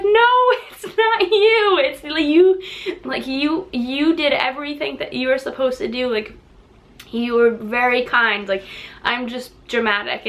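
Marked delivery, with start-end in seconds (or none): 0.0-8.5 teary reassurance. Retold or imitated. Pregnant customer reassuring the owner, high and teary. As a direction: insist it's not their fault. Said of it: "And I'm like".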